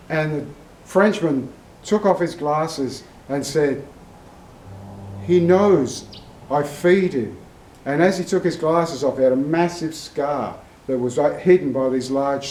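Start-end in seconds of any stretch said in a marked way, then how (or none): 5.2-7.4 mock French accent with a pause midway; badly faked French, stated simply; terrible French accent. Frenchman takes off his glasses and repeats his answer, terrible French accent. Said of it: "It's a terrible French accent".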